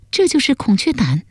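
high-pitched shocked daughter; startled. A narrator's reading. Daughter opening the bundle of poison, startled. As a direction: question it in high, startled surprise. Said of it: "一看便惊道".

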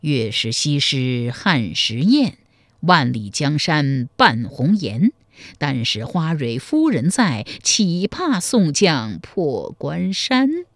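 slow, drawn-out verse chanting; playful recitation. A narrator's reading. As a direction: intone a teasing poem, stretching the line ends. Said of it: "还一脸戏谑地吟道".

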